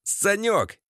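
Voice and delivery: mild mock shout; crying out. A narrator's reading. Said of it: "кричал Валера".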